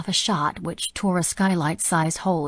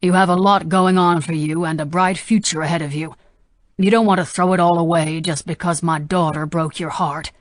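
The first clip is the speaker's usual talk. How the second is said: calm persuasion; 6 dB louder than usual. Acted. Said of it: "cool and calm political persona".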